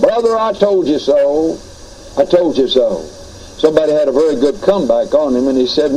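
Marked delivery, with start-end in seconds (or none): 0.0-1.6 gloating "Brother, I told you so" with a teasing rise; mock gloating. Premillennialist waving at a postmillennial brother, lightly mock gloating. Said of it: "that old idea of yours of gloating". 2.2-3.0 "I told you so" repeated lower with a settled fall; gloating repeat. Retold or imitated. Premillennialist rubbing it in to the postmillennial, lower mock gloat. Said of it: "that old idea of yours of gloating".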